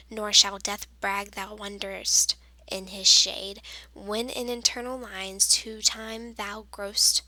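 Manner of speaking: sonnet read aloud in an even, flowing rhythm; poem reading. Shown as a demonstration. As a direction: recite the verse smoothly, line by line. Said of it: "I'm going to read to you".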